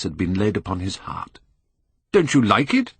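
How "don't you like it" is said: cry out. A narrator's reading. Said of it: "cried Hallward at last".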